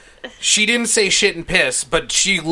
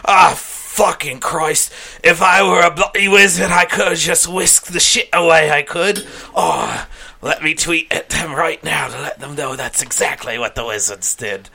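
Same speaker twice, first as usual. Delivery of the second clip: put-on drunk Rowling. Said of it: "she's just like".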